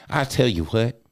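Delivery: lightly voiced grandma catchphrase; a hint of folksy grandma; grandma's voice. Grandma addressing grandson, lightly imitated. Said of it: "That's how she talked".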